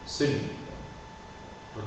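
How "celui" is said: celui as "se-lui", two syllables; mute E pronounced. Shown as a demonstration. Teacher models the demonstrative for student, celui with E sounded. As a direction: sound the E of celui, never "s'lui". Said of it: "On en prononce le E muet".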